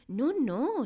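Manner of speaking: high, loud protest; exclaimed. Acted. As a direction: cut in urgently. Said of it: "exclamó la señorita Honey".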